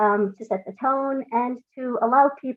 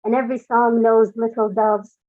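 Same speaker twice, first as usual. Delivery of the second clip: measured, deliberate poem reading; poetry reading. Acted. Reads her own poem.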